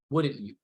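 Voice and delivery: "Wouldn't you?" as a tie-down question tacked on the end; tag question tie-down. Shown as a demonstration. Trainer showing trainees the closing "Wouldn't you?" tie-down. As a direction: drop "Wouldn't you?" at the end to lock in agreement. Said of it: "That's me tying it down at the end".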